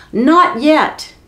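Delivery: a high, sharp not yet; exclaimed not yet. Acted. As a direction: cut in quickly to stop them. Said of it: "Beatrix the butter maid exclaimed".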